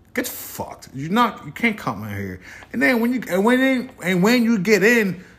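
furious high ranting; loud rant. Real, not acted. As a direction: shout it down at them, fed up. Ranting at women in business.

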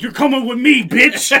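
loud, high mock yell dragging gravity down; mock battle cry. Falling on ice, yelling at gravity in a mock battle cry. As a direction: yell it like you're taking the floor with you. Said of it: "I fucking slipped and I was like".

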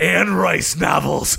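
slow, shouted commercial pitch; mock ad read. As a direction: sell the product hard, slowly. Mock ad for Anne Rice.

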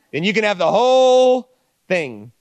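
preacher shouting the invitation to the congregation; building shout. Real, not acted. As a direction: throw the offer out loud to the crowd.

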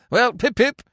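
breezy silly-ass Englishman, lightly voiced. Cyril telling Wooster about his stage part, low and chummy.

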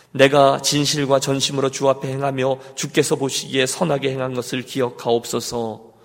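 level, measured recitation; scripture reading. Acted. Pastor leads congregation in reading Scripture, measured recitation. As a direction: read the verse out on an even, intoned pitch. Reads the verse again.

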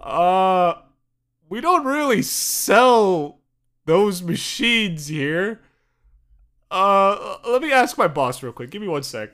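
slow, drawn-out polite clerk voice; lightly voiced unsure employee; hesitant clerk. Egyptian clerk stalling the American on the phone, slow. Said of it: "And the guy's like".

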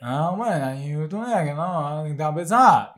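lightly mimicked old local grandparent; mock incomprehensible old-folk dialect; elderly countryside dialect. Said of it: "おじいちゃんおばあちゃんぐらいになってくると".

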